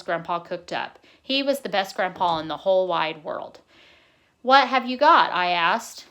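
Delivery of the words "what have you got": eager question. Acted. Boy eagerly asks grandpa.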